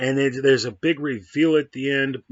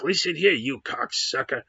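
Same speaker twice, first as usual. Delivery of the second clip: mock second tough guy; 4 semitones higher than usual. The other character snaps the line back, higher mock tough guy. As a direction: bark it back like an overdone movie thug. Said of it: "the other guy's like".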